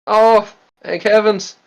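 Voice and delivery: high, overjoyed praise; high ecstatic voice. Acted. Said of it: "Graham is just like".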